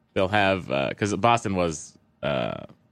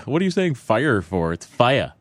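put-on Boston accent; 4 semitones higher, 3 dB louder than usual.

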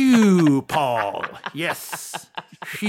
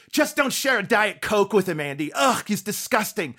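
higher, brash Joan Rivers; Joan Rivers impression; 3 semitones higher than usual. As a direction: gossip like a raspy comedienne. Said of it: "here's my Joan Rivers".

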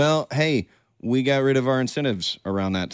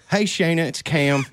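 movie quote; 6 semitones higher than usual. Retold or imitated. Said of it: "I just think of the campaign".

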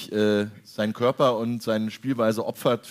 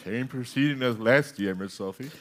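Dinner for One butler. Retold or imitated. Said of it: "keine Neuauflage von Dinner for One".

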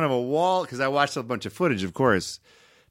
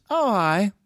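mom on phone; 7 semitones higher than usual. Retold or imitated. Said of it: "she goes".

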